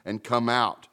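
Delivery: prayer. Acted. Pastor praying before the sermon, earnest and humble. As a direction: pray humbly over the passage. Reading scripture then praying.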